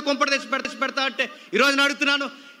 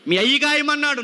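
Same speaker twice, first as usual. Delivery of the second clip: higher and louder, hammering it home; loud scolding retort; 4 semitones higher, 4 dB louder than usual. Acted. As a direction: shout it back like a stern father. Repeated taunt, second said loud.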